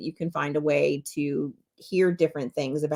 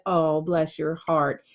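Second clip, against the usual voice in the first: mock sweet bless; 2 semitones lower, slower than usual. Shown as a demonstration. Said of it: "is the same fucking intention".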